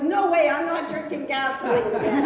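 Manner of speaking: laughing protest. Acted. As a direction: blurt it out while laughing. Lawyer protests in joke.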